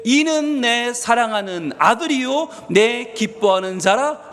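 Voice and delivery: slow, measured scripture reading; slow joint reading. Real, not acted. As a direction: read it out slowly for a congregation to follow. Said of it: "같이 읽습니다".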